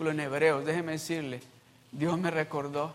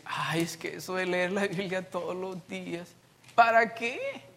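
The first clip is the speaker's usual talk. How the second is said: lazy whine. Pretend.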